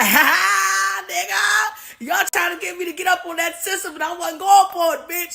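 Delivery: gloating leader cackling at the allies; Erdogan gloating laugh. Retold or imitated. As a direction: laugh at them for falling for it. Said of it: "He laughing in the background".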